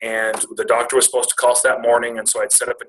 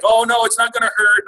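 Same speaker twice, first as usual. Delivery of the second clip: imitated soothing staff; 11 semitones higher, 4 dB louder than usual. Dentist staff soothing a red-eyed patient.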